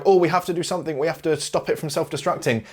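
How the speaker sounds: high-pitched imitation of a panicking crew; mock panic. Crew facing a self-destructing station, mock panic. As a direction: mimic everyone fretting urgently.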